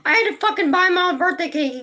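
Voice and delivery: high, loud wailing complaint; crying. Retold or imitated. Calling Glenn in tears about the birthday cake. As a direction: wail it like fresh tears on the phone. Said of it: "calling Glenn crying".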